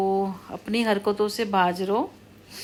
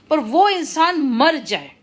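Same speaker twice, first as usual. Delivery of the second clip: slow, emphatic, higher-pitched curse; angry curse; 5 semitones higher, 4 dB louder, slower than usual. Real, not acted. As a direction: spit out a real curse, stretching each word. Cursing whoever does black magic on her.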